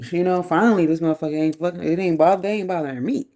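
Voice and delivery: loud, emphatic mock outburst; acted exasperated relief. Voicing a viewer relieved by an ex's marriage, exasperated. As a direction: burst out as if finally rid of a nuisance. Imagined relieved reaction to news.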